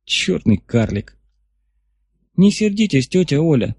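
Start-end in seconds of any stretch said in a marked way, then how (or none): 2.4-3.7 put-on girl voice. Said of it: "повторила Наталья Четвертак".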